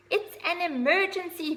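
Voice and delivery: high, loud urgent cry; shout. Acted. Little owl shouting to the horse, high and loud. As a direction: shout it like the sky is falling. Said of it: "cried Ozzy".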